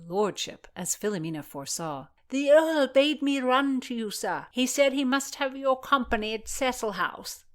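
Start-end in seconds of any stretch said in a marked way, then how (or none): 2.3-7.4 put-on young page voice. A narrator's reading. Voices Philomena.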